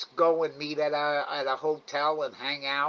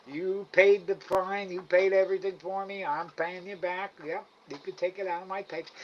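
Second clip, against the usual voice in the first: higher-pitched recap of giving in; retold conceding; 5 semitones higher than usual. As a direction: concede the point to dad, voice raised in pitch. Retold concession to his dad.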